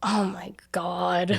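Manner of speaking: soft breathy slow whisper; amused disbelief at a friend's question, whispered; whispered oh my God. Real, not acted. Reacting to club tail question.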